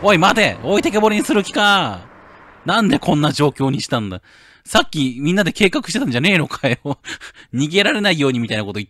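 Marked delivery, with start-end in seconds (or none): 0.0-3.7 high, loud cry after a stolen car; outraged shout. Acted. The owner yelling after Misuzu driving off, outraged. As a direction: yell after the driver in outrage.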